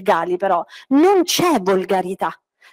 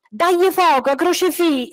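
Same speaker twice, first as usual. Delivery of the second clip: women's yell; 8 semitones higher than usual. Retold or imitated. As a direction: cry it out like angry women egging her on. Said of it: "le urlarono le donne".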